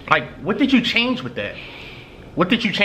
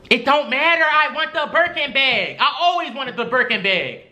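put-on girlfriend voice; 5 semitones higher than usual. Man voices demanding girlfriend.

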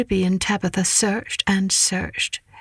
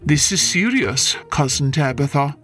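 lower, brisk no-nonsense cat; stern neighbour cat; 4 semitones lower than usual. Acted. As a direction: scold like a stern aunt. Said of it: "said Ribby".

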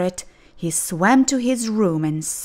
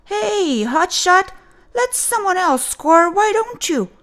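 high, cranky jab; annoyed teammate; 12 semitones higher, 4 dB louder than usual. Acted. Joey scolding his hockey teammate, high and cranky. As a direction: needle the show-off.

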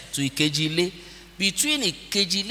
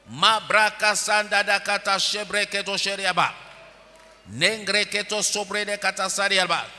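speaking in tongues; 4 semitones higher than usual. Real, not acted.

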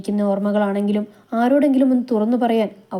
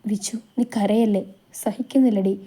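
tender. Acted. Sree comforting crying Vichu, whispered and tender. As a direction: hush her crying gently. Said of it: "അലിവോടെ നോക്കി".

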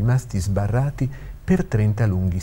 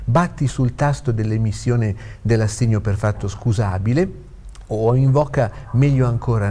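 higher-pitched, insistent paternal instruction; a father firmly pressing his point; father urging his son; 3 semitones higher than usual. Acted. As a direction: plead the client's case, then give orders.

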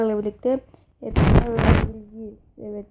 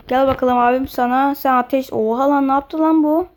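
hyped battle cry; 2 semitones higher, 8 dB louder than usual. Real, not acted.

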